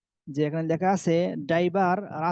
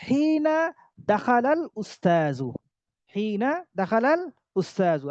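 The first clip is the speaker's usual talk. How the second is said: slow model phrase; 3 semitones higher, slower than usual. Shown as a demonstration. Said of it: "slow model phrase".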